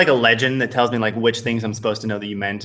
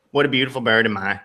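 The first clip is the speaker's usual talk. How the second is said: Southern bird voice. Acted. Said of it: "It's, like, a little bit Southern".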